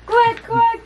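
high, lively duck quacks. Shown as a demonstration. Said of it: "What's the duck say?".

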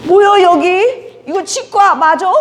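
slow, loud, sneering "what is this place"; rude patient. Retold or imitated. Drunk patient sneering at the young dentist, slow and loud. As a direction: drag it out like a rude drunk man.

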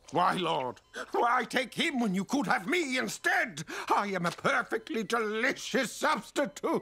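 mock tragic plea to the Lord; rehearsed lament. Actor rehearsing for a commercial, hammed-up lament. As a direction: overplay the grief for an audition. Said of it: "I was rehearsing".

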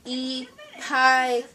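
cape said backwards as e pike; backwards speech. Shown as a demonstration. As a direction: say the sounds in reverse order. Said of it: "Say it backwards".

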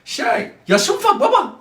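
put-on high, soft little-boy voice; childish whine. Son acts like a little kid to father. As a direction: play the small child to dodge.

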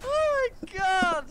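real high, loud drawn-out amazement; slow, high-pitched delighted yell; astonished shout. Real, not acted. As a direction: cry out in stunned hilarity. Cracking up at duck impression.

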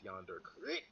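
"creek" said as "crick" after "yonder"; short i in "creek", as in brick; Alabama pronunciation. Shown as a demonstration. Player correcting the friend's country impression, Alabama pronunciation. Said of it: "you have to master saying crick".

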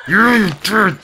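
high loud shout; shrill shout; yelled. Real, not acted. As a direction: scream at the horse. Rage peak.

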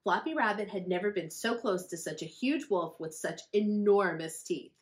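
usual speaking voice

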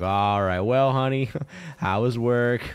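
mock domestic cheer; mock spouse voice. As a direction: play the sweet welcoming partner. Mock wife greeting partner home.

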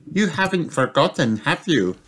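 put-on high little girl piglet asking; child piglet wondering where the jumpers are; Peppa's voice. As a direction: ask Daddy in a small high voice.

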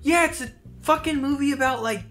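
sarcastic. Retold or imitated. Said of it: "I'm like".

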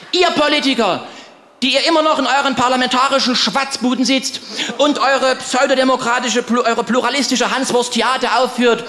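hammed-up rabble-rousing rant out the window, building to a shout; mock furious proclamation to the politicians; grim shouted tirade. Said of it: "rief hinaus ... mit Grimm in der Stimme". (gespielt grimmige Brandrede, zum Schreien anschwellend)

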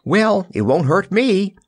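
high, slow, self-satisfied boast; drawn-out smug singsong; boastful. A narrator's reading. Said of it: "boasted the Scarecrow".

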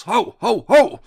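very high, loud imitated dog barks; głośne szczekanie. A narrator's reading. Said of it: "Szczeknął tak głośno". (głośne, wysokie szczekanie psa, coraz mocniejsze)

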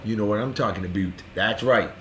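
put-on low, soft joking Canadian accent; quiet mock-Canadian aside. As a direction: slip into a Canadian "aboot". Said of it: "Canada indeed".

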